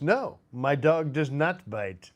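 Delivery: slow, lightly acted deadpan answer; film bit-part reply. The guy answering about his dog, lightly acted slow reply. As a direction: draw the denial out slowly, a touch of character. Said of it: "the guy goes".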